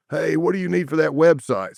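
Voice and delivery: mock calling to someone upstairs; retold yell. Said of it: "So they yell up".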